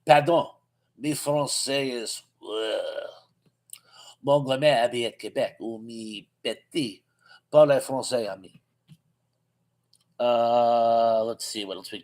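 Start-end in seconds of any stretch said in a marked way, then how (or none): 0.1-8.6 mock French accent. Joking to the chat in a deliberately bad French accent. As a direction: play a clumsy tourist faking French. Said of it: "that is the worst French accent you will ever hear".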